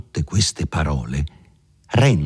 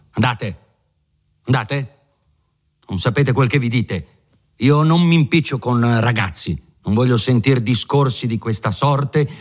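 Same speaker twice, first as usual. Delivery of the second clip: higher, huffy dismissal; indignant lawyer; 3 semitones higher than usual. Acted. Lawyer throwing Renzo out, higher and indignant. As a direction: wave him out indignantly.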